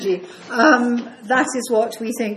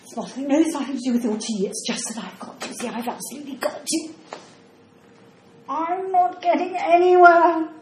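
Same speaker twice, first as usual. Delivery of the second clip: flustered, laughing and near tears by turns; a bewildered woman panicking over her lost memory; rising distress, high and breaking; confused old woman; 7 semitones higher than usual. Acted. Acts a confused dementia patient.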